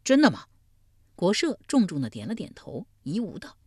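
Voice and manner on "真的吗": high, loud surprised question; doubtful but hopeful, pitched up; a burst of surprised doubt; half-believing. A narrator's reading. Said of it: "似信非信道".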